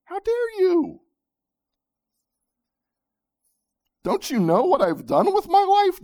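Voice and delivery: loud, outraged, high-pitched protest; indignant shout. Pretend. Preacher voicing the religious heart defying grace, shouting. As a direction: shout back, wounded pride. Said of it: "The religious heart shouts back".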